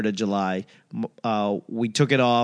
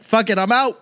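mock quitter; 7 semitones higher than usual. Voicing the Achilles quitting.

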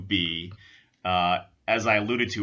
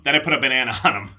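quicker, laughing through it; laughing retake; much faster than usual. Real, not acted. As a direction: giggle the repeat. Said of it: "Oh, and then I put a banana on him".

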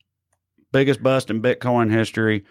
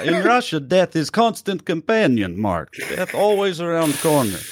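mock Russian accent; 6 semitones higher than usual. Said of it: "in Russia voice whole time".

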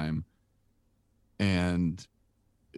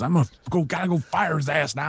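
retold angry threat; 9 semitones higher than usual. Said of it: "he's just cussing out the door".

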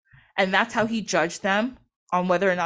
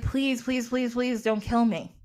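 mock begging, a little raised in pitch; pleading; 3 dB quieter, slower than usual. Set begging Isis for his life, pleading. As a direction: plead lightly for mercy, word after word.

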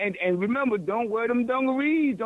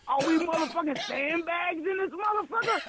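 ranting; 4 semitones higher than usual. Real, not acted. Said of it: "that's my five minute rant".

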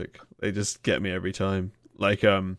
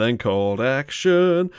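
imitating the singer; 5 semitones higher, slower than usual. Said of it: "where he goes".

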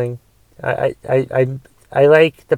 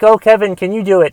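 imitated pleading request; 5 semitones higher, faster than usual. Acting out others' favour request.

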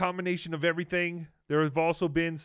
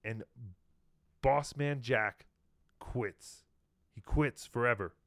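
mock solemn announcement; 6 semitones lower, 5 dB quieter than usual.

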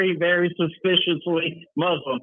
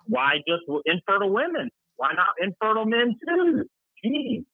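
high-pitched mock protest; mock indignation; 6 semitones higher than usual. Co-host heckling an article about infertile women, mock indignant. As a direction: protest in playful, rising disbelief.

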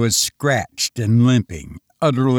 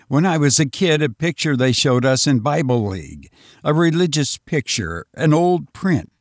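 urgent frightened man; 2 semitones higher than usual. Acted. Lois continues his theory.

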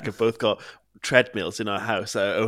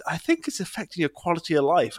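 imitating the therapist; 6 semitones higher than usual. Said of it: "she was like".

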